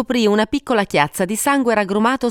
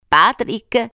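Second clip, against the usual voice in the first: higher-pitched call to a husband; 5 semitones higher than usual. A narrator's reading. Wife calls Patrick on coming home, calling out. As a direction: call his name across the house. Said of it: "chiamò".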